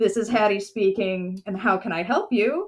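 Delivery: mock chipper, put-on cheerful tone. Retelling answering the firm's phone to a woman she knew: imitating own chipper greeting. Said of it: "I am as chipper as can be".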